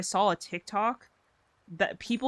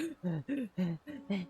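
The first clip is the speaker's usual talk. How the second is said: nervous gasp; 8 dB quieter than usual. Retold or imitated. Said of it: "I would always get so nervous".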